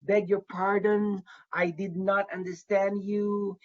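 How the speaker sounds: slow, unhurried, polite ask; a courteous applicant asking the officer to repeat; polite request. Shown as a demonstration. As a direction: calmly ask them to repeat. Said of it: "do not feel afraid to say".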